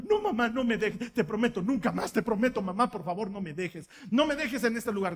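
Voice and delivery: pleading daughter. Retold or imitated. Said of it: "Y ella chilla, grita".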